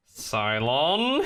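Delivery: mock-baffled, pitch climbing steeply; puzzled exclamation. Podcaster reenacting their reaction to a dropped line, puzzled.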